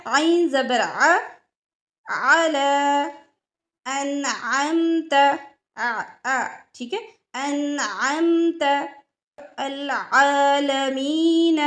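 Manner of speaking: आला अनअमत आलमीन slowly with a throaty आइन; slow example words. Shown as a demonstration. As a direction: drill each word slowly. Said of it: "आइन की मिसालें देख लेते हैं". (आइन वाले लफ़्ज़ धीरे धीरे)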